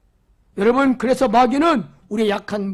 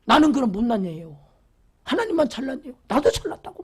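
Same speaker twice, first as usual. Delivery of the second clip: arguing with God; 2 semitones higher than usual. Retold or imitated. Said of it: "막 따지고 막 따지는 거요".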